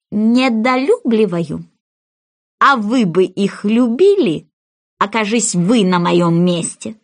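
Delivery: slow, offended mouse voice; indignant mouse, slow and offended. Acted. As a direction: let the mouse bristle slowly.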